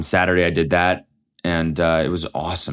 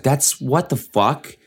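stunned; 6 semitones higher, slower than usual. Retold or imitated. Stunned reaction.

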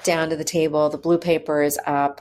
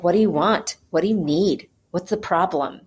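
mild mock annoyance; 2 semitones higher than usual. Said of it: "another one got mad at me".

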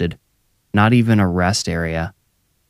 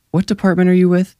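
high, quick woman's voice; Tara questioning; 11 semitones higher, faster than usual. A narrator's reading. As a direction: fire off the question in a raised pitch. Narrator voices suspicious Tara questioning officer.

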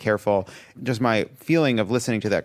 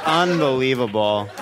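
laughing disbelief. Real, not acted. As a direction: say it through laughter. Laughing at the jab.

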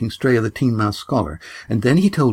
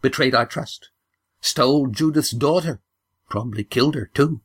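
put-on rising, higher old woman's accusing list; grandmother's accusation; 4 semitones higher than usual. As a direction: pile up the charges, climbing higher. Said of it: "spat the grandmother".

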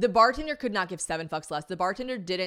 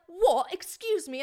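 affronted surprise; 10 semitones higher, slower than usual. Retold or imitated. Man reacts to being shouted at.

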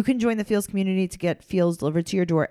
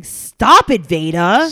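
Nova screaming; 9 dB louder, much slower than usual. Retold or imitated. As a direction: imitate a kid yelling at a crying sister. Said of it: "Nova screaming at Veda".

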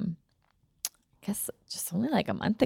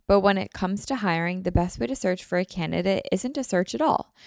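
measured, scripted hiring-platform ad; sponsor ad read; 3 dB quieter than usual. Real, not acted. Host pitching a hiring service to podcast listeners, ad read. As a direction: read the sponsor copy evenly and clearly.

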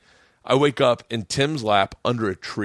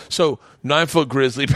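stage-style shout of grizzly; shouted punchline. Shown as a demonstration. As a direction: belt it out like on stage. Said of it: "I'm gonna keep saying grizzly on stage".

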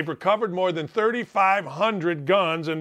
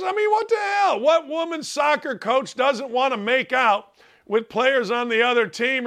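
incredulous outburst; 4 semitones higher than usual. Real, not acted. Radio host to listeners, incredulous, high half-shout. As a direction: blurt it out like you can't believe the fuss. Host mocks outrage at allegations.

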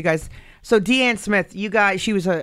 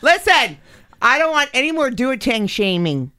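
mock protest; 6 semitones higher than usual. Real, not acted. Host protesting playfully.

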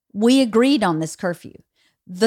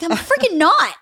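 retold defensive retort; 9 semitones higher than usual. Retells own defensive retort.

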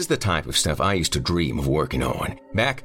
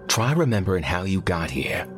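higher, coaxing reassurance; reassuring; 5 semitones higher than usual. A narrator's reading. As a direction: coax a shaken colleague to remember. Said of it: "Lucas assured our colleague".

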